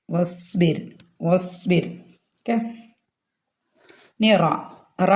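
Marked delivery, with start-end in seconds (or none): 0.1-1.8 വസ്ബിർ as one "was-bir", no i; joined, hamza dropped. Shown as a demonstration. Teacher repeating why hamza is not pronounced, joined pronunciation. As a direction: glide from wa straight into s in വസ്ബിർ. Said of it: "ഹംസത്തുൽ വസ്ലിനെ pronounce ചെയ്യൂല".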